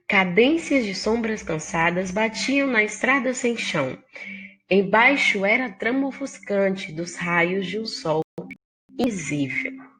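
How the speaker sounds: measured poetry reading; poem recital. Acted. Teacher reciting a poem to students, measured.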